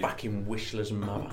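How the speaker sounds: put-on Cockney swearing. Trying out a line that sounds like Cockney, mock Cockney. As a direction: curse it in broad mock Cockney. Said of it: "That sounds like Cockney".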